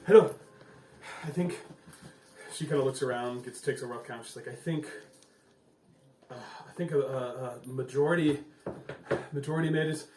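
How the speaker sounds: a hint of a weary mayor taking a count; Mayor Finral. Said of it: "So she's kinda like".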